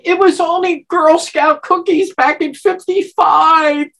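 high, loud and slow, cheeky; high slow joking. Retold or imitated. Woman retelling her joke to the cop, high and cheeky. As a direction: deliver the quip with a grin. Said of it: "I said".

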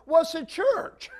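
high, slow, loud disbelief; baffled high voice. Acted. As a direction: stretch it out, totally puzzled. Punchline, bill baffled by church.

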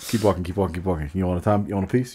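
low mock hustler patter; imitated shady watch peddler; furtive street seller. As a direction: mutter repeated offers in passing. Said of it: "he's talking to all of us, kinda like".

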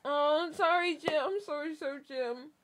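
tearful, worn-out apology; crying, worn out. Real, not acted. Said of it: "I gotta stop crying".

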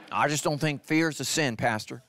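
lightly put-on southern accent. Unconvinced churchgoer objects to the pastor, light southern accent. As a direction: object with a touch of southern twang. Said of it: "There's that southern accent again".

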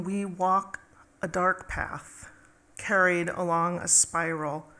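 slow, deliberate verse with pauses between phrases; poem reading. Acted. Poet reads The Eighth Fire to listeners, deliberate recital. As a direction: weigh each image, starting strong.

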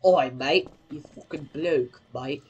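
slangy put-on Australian accent; play-acted Aussie "oi, mate" voice; mock Australian accent. Gamer imitating an Australian creature, mock Australian accent. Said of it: "That's more British sounding".

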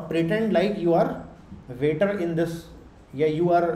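slow, deliberate dictation to a chatbot; dictating a prompt. Shown as a demonstration. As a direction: spell out each word of the prompt slowly. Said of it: "अब फिर मैं उससे बोलूँगा कि भाई". (चैटबॉट को धीरे-धीरे prompt लिखवाते हुए)

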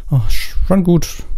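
high, very slow, deflated; Harry masking his disappointment; forced casual. Acted. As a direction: pretend it doesn't matter.

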